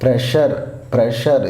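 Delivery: ప్రెషర్ with a "sha" sound in the middle. Shown as a demonstration. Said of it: "ఇది షా sound". (ప్రెషర్ లో షా sound)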